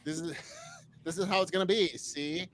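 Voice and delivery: brisk mid-Atlantic newsroom declaration; Hepburn-style decree to a newsroom; Katharine Hepburn impression. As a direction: stride in and declare it, old-movie style. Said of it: "like Katharine Hepburn striding into a newsroom".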